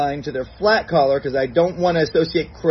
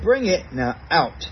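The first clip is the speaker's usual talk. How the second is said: upbeat command; slower than usual. Shown as a demonstration. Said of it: "and I'll say".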